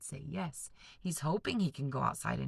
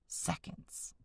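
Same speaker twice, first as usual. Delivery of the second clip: whispered; 9 dB quieter than usual. Real, not acted. Teacher stresses point.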